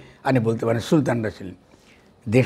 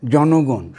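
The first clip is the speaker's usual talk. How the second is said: জনগণ said alone and louder, then a pause; stress on জনগণ; 5 dB louder, much slower than usual. Shown as a demonstration. Speaker stressing the key word for the audience, in a firm, louder voice. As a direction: hit the word জনগণ hard. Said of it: "শব্দটা হচ্ছে জনগণ".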